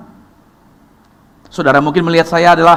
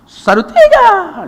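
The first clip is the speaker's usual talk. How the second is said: much higher, sped-up mock count skipping numbers; fast Ambon count; 5 dB louder, much slower than usual. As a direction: fire the numbers off like a racer. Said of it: "cepat sekali dia". (menghitung cepat ala orang Ambon, nada tinggi)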